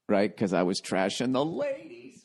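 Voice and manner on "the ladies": mock sing-song. Mocking reason for girlfriend's dislike.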